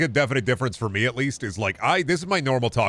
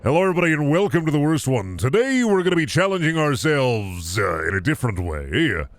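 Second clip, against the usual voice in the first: louder, higher hyped YouTuber intro; old YouTube-intro energy, louder and higher; 4 semitones higher, 4 dB louder than usual. Shown as a demonstration. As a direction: greet the viewers like an over-the-top channel host. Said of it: "past YouTuber self, where it'd be like".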